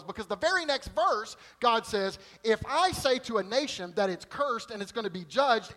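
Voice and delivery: high, loud, driving sermon delivery; full-force preaching. Acted. Preacher driving home potter and clay to the congregation, at full force. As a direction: hammer the point home to the congregation.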